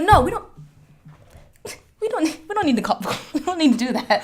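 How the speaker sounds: high, laughing plea to the other driver; mock pleading. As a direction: squeak it out, half laughing. Retelling pleading with upset driver.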